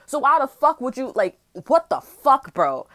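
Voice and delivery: rising angry disbelief; exasperated outburst. Retold or imitated. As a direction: fling the question at him in disbelief. Ranting at the cousin.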